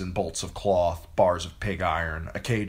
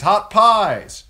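even higher, loud vendor's call; street cry again, higher; 12 dB louder than usual. A narrator's reading. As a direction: sell pies to the whole street.

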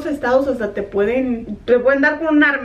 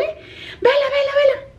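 calling the dog; 12 semitones higher, slower than usual. Retold or imitated. Retelling how she called her lost dog, high calling. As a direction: call her name out into the yard. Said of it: "estoy gritándole".

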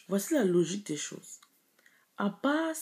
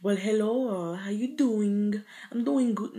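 put-on English-speaking accent; 3 semitones higher, 4 dB louder than usual. Shown as a demonstration. Speaker showing a switch from French to English, showy English accent. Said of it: "Tu commences à parler anglais".

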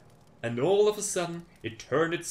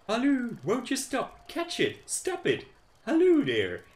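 high, loud calls to stop it; chasing shouts; 9 semitones higher, 5 dB louder than usual. Acted. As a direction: yell after the runaway pancake. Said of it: "they all screamed".

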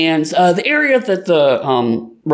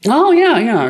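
higher and louder, caught off guard; startled yes; 10 semitones higher, 5 dB louder than usual. Acted. Cat caught off guard by a question about his clothes, startled. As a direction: jump at the question.

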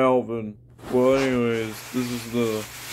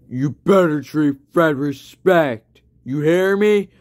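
mock scolding; 3 semitones higher, 4 dB louder than usual. Warning his cousin.

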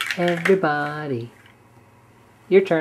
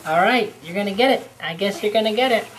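playful threat; 4 semitones higher, faster than usual. Pretend.

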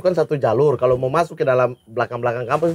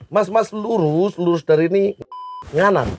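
imitated NTT accent, slow and raised; mixed NTT accent; 4 semitones higher than usual. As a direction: give directions in a mock NTT-Javanese accent. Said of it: "N T T di Pulau Logat jadi N T T". (tiruan logat NTT campur Jawa)

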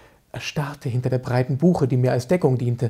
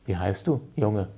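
earnest question; 6 semitones lower, 5 dB quieter than usual. Acted. Hoffmann suddenly serious.

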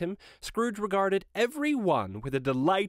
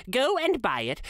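higher, insistent command; earnest urging; 9 semitones higher than usual. Acted. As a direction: urge it eagerly with GO pitched high. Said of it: "I am in earnest".

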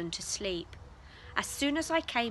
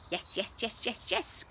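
squeaked; 4 dB quieter than usual. A narrator's reading. Guinea pig squeaking at the offered carrot. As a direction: squeak it out eagerly. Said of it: "squeaked Mister Keelock".

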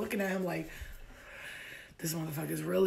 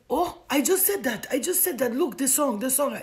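raised, high astonished exclamation; amazed excitement; 5 semitones higher, 6 dB louder than usual. Retold or imitated. Suitor points out the song to her, amazed. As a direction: imitate his thrilled disbelief.

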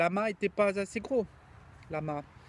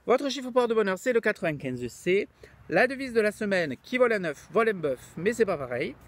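louder mock Midi accent; southern French accent; 3 semitones higher, 3 dB louder than usual. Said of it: "il a l'accent du midi".

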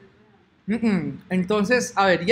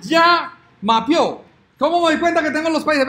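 excited relief; 6 semitones higher, 5 dB louder than usual. Real, not acted. Excited after success.

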